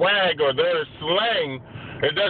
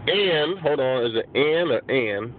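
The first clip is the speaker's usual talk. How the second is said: slow careful repeat; slower than usual. Real, not acted. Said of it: "Make sure I said it right".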